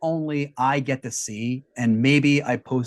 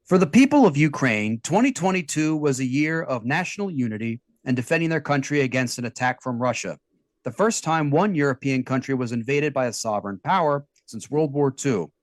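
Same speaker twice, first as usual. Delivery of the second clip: news read. Acted.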